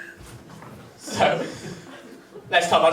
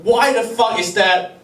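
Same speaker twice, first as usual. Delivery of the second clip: half-hearted indignant shouting, pitched higher; mock angry yell; 5 semitones higher than usual. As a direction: play the queen ranting at god, lightly. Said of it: "yelling at her god".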